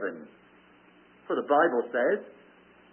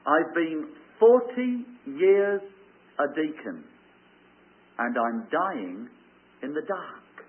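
put-on dying old man; slower than usual. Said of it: "the old man was saying this".

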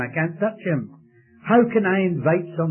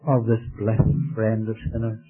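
closing prayer. Acted. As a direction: pray over the congregation tenderly.

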